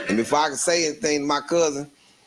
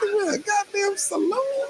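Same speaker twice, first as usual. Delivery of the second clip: laughing. Retold or imitated. Laughing retelling of the bar.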